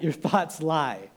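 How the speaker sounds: each word of Your thoughts lie set apart, slow and firm; a deliberate, weighty repeat; slow emphatic warning. Acted. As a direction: lean on every word so it sticks. Preacher drives home key line.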